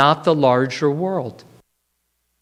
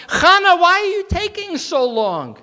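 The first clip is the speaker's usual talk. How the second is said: raised, impatient yell; 11 semitones higher than usual. A narrator's reading. Husband yelling at wife to hurry with satchels. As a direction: call out, fed up with waiting. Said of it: "And he yelled out".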